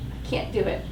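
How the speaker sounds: breathless whispered plea; desperate whisper. Acted. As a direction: whisper it in despair. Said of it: "I whisper desperately".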